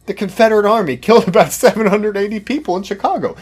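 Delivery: loud, high sarcastic punchline with a laugh. Pretend. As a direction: land the absurd claim mockingly.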